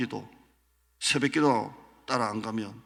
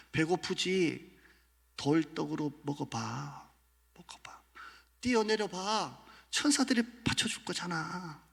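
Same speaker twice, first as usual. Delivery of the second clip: higher, coaxing, fading to a whisper; sly devil tempting; 5 semitones higher, 3 dB quieter than usual. Acted. Devil tempting Jesus in the wilderness. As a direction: dangle the offer, sweetly.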